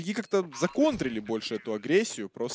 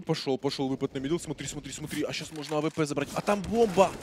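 excited; 5 semitones higher, 3 dB louder than usual. Real, not acted. Tense round call.

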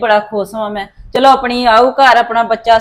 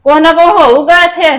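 angry; 4 semitones higher, 4 dB louder than usual. Acted. Mother-in-law threatens in quarrel.

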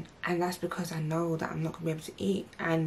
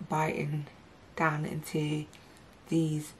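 speaking with lip held down; fingers pulling lip down; slower than usual. Real, not acted. Seen 1: Both index fingers pull lower lip down, showing braces, until 3.3.

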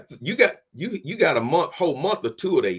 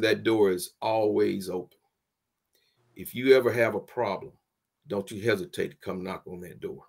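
coach's drawl; 4 semitones lower than usual. Retold or imitated. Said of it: "he had that old Southern drawl".

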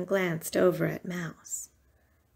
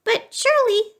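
high, small mouse protest; pleading mouse; 13 semitones higher, 4 dB louder than usual. A narrator's reading. Mouse pleads with Bear for presents, high protest.

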